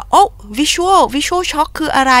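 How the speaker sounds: high, slow, amazed imitation of fans; mock fan voice. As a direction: play a wide-eyed fan asking what visual shock is. Fans repeating the slogan.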